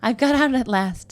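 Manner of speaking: wife crowing to her husband about her escape; triumphant. A narrator's reading. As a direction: gloat over your escape.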